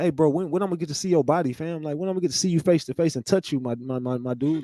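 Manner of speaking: quick mocking sweet talk, fading at the end; mock eager bro. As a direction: rush it like an overeager friend. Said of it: "he was like".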